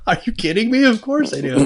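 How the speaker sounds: high, whispered squeal of delight; thrilled whisper-squeal; excited disbelief. Retold or imitated. Thrilled reply to art director.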